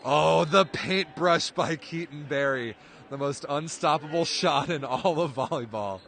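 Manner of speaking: amused play-by-play praise; delighted call. Real, not acted. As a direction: marvel at the cheeky shot.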